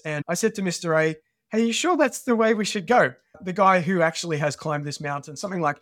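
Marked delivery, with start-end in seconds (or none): 1.5-3.1 higher-pitched, mildly nervous retold question; a bit nervous. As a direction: question the route as a slightly nervous teenager. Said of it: "starting to get a bit nervous".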